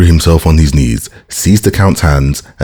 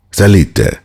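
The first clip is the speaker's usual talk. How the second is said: a touch of master to servant; commanding order; 4 semitones higher than usual. A narrator's reading. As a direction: give it as a curt order to a servant. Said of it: "in the same tone in which he would have given an order to his servant".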